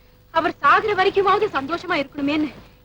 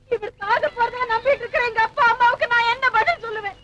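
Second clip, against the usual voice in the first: tearful, distressed plea; anguished. Acted. Daughter dreading what to tell her parents, anguished. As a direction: ask helplessly through tears. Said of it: "நான் வேதனை பட்டுக்கிட்டு இருக்கேன்".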